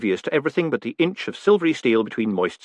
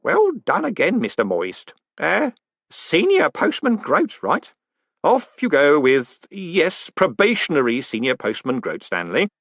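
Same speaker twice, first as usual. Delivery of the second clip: kindly; 6 semitones higher, slower than usual. Acted. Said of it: "as kindly as he could manage".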